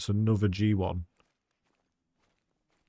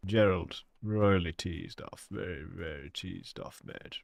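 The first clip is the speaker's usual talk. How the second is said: an American trying a British accent on teased off; American doing British accent; slower than usual. Shown as a demonstration. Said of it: "my interpretation of an American, uh, doing a British accent".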